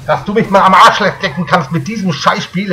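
raging, laughing in disbelief; berserk rage. Real, not acted. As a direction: curse the game, half laughing. Raging at the game again.

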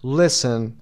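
"Listen" stressed on Lis, silent t; stress on first syllable. Shown as a demonstration. Teacher showing learners the stress, "Listen" leaning on Lis. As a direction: punch the Lis of "Listen", let the rest fall. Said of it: "استرسش هم روی لس گذاشته".

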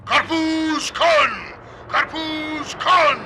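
drawn-out hawker's cry; sustained watermelon seller's call; vendor bawling on microphone. Acted. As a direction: sing out the wares slowly. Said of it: "mikrofonla avaz avaz".

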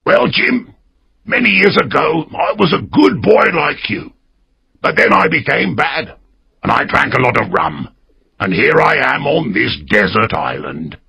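a lonely castaway pouring out his story; old castaway. A narrator's reading. Ben Gunn's confession.

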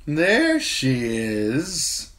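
a menacing pleased smile in the voice; smiling. A narrator's reading. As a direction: drunk brother spotting his sister, smiling.

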